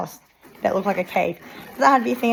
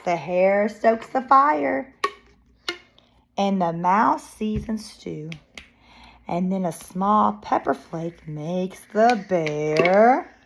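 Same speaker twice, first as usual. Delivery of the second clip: slow, drawn-out story build-up; suspenseful narration; slower than usual. Acted. Reading to children before the bear sneezes, suspenseful. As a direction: stretch it toward the coming sneeze.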